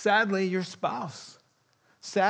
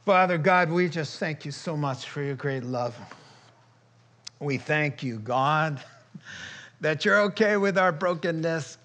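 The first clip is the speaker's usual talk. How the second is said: earnest spoken prayer; closing prayer. Acted. Pastor leading the congregation in closing prayer, earnest. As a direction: pray for the congregation with feeling.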